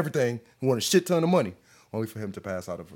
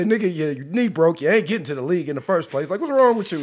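mocking classmate; 5 semitones higher, 5 dB louder than usual. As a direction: taunt him like a schoolyard bully. Classmates mocking his broken knee.

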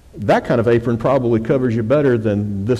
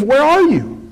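high, louder searching call; 13 semitones higher, 5 dB louder than usual. Acted. God calls to Adam and Eve hiding, high calling voice. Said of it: "called to Adam and Eve".

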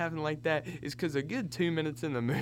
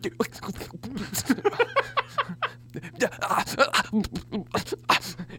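vocal panting run; 6 semitones higher than usual. Retold or imitated. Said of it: "and you hear".

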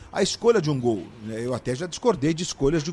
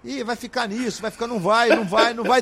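excited doubt; 7 semitones higher, 3 dB louder than usual. Retold or imitated. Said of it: "o Roger falava assim".

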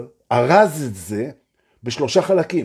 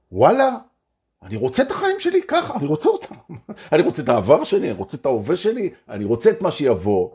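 high, bright declaration of wanting life; a joyful yes to your own life; excited affirmation; 4 semitones higher, faster than usual. Pretend. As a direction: say it like you finally mean it. Voicing an affirmation.

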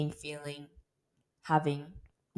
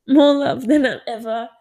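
"More love" pushed out louder and higher through tears; laughing as the tears start; choked up but laughing; tearful laugh; 5 semitones higher, 7 dB louder than usual. Real, not acted. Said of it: "oh my God, I'm gonna cry".

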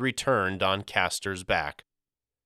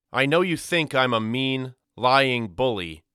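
put-on higher, louder boy's earnest appeal; 5 semitones higher, 4 dB louder than usual. A narrator's reading. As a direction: insist sincerely to a doubting brother. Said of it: "He appeared genuine".

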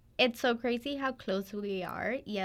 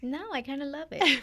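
whispering; 4 semitones higher than usual. Real, not acted. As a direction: breathe it as a whisper. Playful whispered reply.

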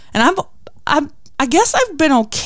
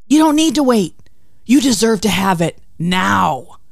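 tempter's urging. Retold or imitated. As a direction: egg them on like a tempter. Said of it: "this is a good one".

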